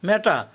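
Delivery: ম্যাটার said as "meta"; silent final R. Shown as a demonstration. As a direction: say ম্যাটার with no R at the end. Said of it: "লাস্টের আরের উচ্চারণ হবে না". (ম্যাটার, শেষে র হবে না)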